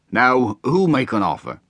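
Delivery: half-hearted auctioneer's cry; cried out. A narrator's reading. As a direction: call for bids across the room. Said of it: "cried the man".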